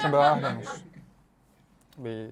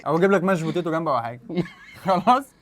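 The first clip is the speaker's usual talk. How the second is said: trying not to laugh. Real, not acted. Host laughing during setup.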